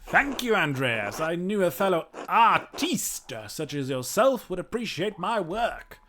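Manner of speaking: pompous eccentric mad scientist. Acted. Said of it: "like a mad scientist voice".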